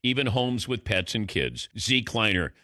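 measured, polished radio commercial read; scripted announcer delivery with deliberate phrasing. Real, not acted. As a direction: present the product like a sponsor pitch. Reads a recliner ad.

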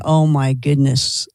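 drawn-out, low "oh my goodness"; slow, low mock exclamation; mock dismay. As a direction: say it slowly, sinking low in pitch. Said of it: "and then going".

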